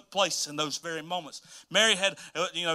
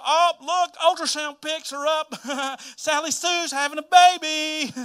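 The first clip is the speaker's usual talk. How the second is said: social media gossip; 9 semitones higher, 6 dB louder than usual. Retold or imitated. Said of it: "on social media".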